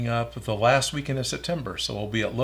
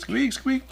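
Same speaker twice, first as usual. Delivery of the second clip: rubbery high squeaky toy; 12 semitones higher, 4 dB quieter than usual. Pretend. Echoes the squeak sound.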